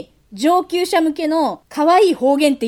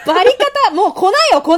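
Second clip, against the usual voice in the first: 高く大声で、笑い混じりに茶化す; 女友達のツッコミをふざけて大げさに; 笑いながらの冷やかし; 9 semitones higher, 8 dB louder, faster than usual. Acted. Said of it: "っつって言ってくれる。". (笑い混じりの大げさなツッコミ)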